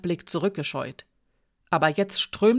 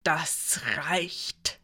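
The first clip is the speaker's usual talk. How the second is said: contained, sharp command; 4 dB quieter than usual. A narrator's reading. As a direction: end the discussion sternly. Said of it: "sagte sie scharf".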